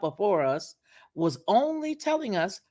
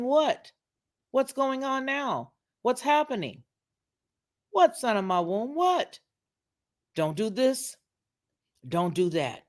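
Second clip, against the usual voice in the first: mother's plea; 5 semitones higher than usual. Retold or imitated. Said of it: "it's the mother saying".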